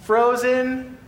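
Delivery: put-on can you believe this kid, bursting with it; mock-outraged preacher listing Disneyland joys to a boy; incredulous. Incredulous rant at the little boy.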